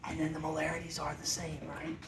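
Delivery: hushed, quick half-whisper; worried whisper. Real, not acted. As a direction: drop to a secretive hush. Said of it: "Why are we whispering?".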